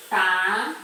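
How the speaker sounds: "panela" split into pa, ne, la with pauses; syllable by syllable. Shown as a demonstration. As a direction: separate each syllable of "panela". Teacher separates syllables of example word.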